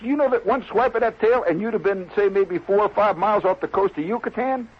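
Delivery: worked-up warning. Acted. Club member warns guest about one tail swipe, worked up. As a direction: impress the danger on him.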